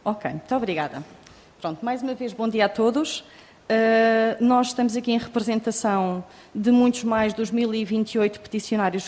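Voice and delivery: muffled behind a face mask; speaking with a face mask on; through a face mask. Real, not acted. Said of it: "prefiro não o fazer".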